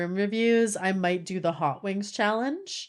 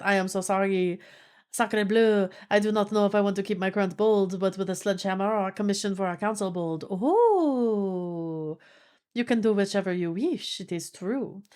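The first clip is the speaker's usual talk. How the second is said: lightly put-on French accent; resume a stock French accent; mock French accent. Streamer apologizing to chat, in mock French accent. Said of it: "keep doing the French accent".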